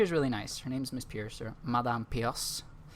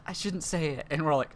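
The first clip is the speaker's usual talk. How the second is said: high, loud excited teacher; 5 semitones higher, 5 dB louder than usual. Retold or imitated. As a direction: play the flustered teacher, pitched up.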